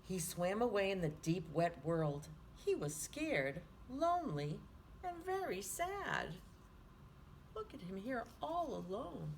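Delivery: lively picture-book reading; reading to children. A narrator's reading. Teacher reading Swimmy aloud to children, lively storytime voice. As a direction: read it like storytime for little ones.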